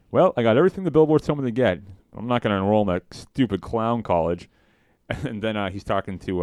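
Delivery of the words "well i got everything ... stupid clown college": quoting Homer. Retold or imitated. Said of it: "And then he's like".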